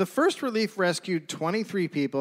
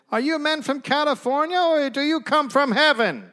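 high, loud, frantic survivor woman; hollow agitated voice; 12 semitones higher, 6 dB louder than usual. Acted. Starving woman asks the rescuers, high frantic hollow voice. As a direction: plead like a half-mad starving ghost. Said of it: "spoke in a hollow voice, very much agitated".

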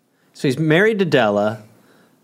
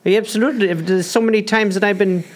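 comic argument; 5 semitones higher than usual. Pretend. Improvised manager and owner argument.

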